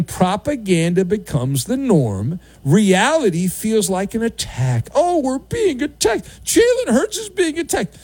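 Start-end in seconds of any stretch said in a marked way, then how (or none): 4.9-8.0 mock panic.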